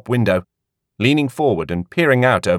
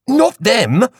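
dismissive; 13 semitones higher, 4 dB louder than usual. A narrator's reading. Woman correcting Hattie.

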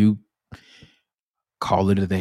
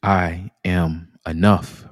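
calm affirmation; 3 semitones lower, slower than usual. Shown as a demonstration. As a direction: say it slowly and calmly to yourself. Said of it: "And simply repeat after me".

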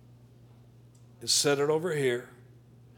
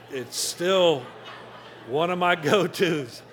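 chuckling through the words; laughing; slower than usual. Real, not acted. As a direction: laugh it off lightly. Laughs about heart attack.

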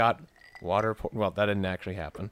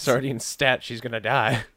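mock urgent; 4 semitones higher, 5 dB louder than usual. Mock urgent vet call.

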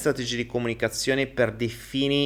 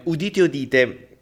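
slow drawn-out proclamation; town crier; 3 semitones higher, 3 dB louder, slower than usual. Pretend. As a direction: proclaim it like a herald.

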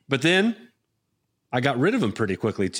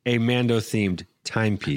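posh correction. Pretend. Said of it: "thank you. That's a very, uh, distinct correction".

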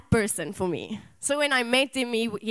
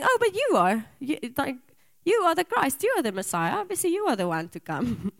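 nonchalant; 3 semitones higher than usual. Retold or imitated. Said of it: "Sort of, like, nonchalantly".

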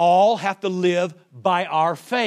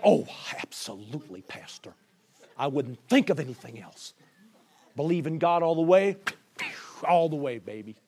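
breezy congregant; 7 semitones lower, 6 dB quieter than usual. Retold or imitated. Congregant's breezy reply to pastor.

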